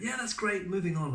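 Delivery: high-pitched brisk call to move on; retold film crew. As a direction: imitate a crew calling out across the set. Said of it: "and they went".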